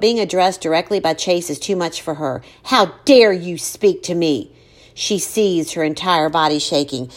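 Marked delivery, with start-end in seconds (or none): 2.6-4.5 slow, seething outrage; cold fury. Acted. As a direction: spit out each word slowly. Furious mother to bully.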